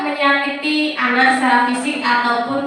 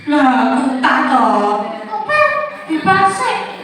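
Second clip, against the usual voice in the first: sharp demanding; 5 semitones higher than usual. Shown as a demonstration. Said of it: "Beda ya, Bu".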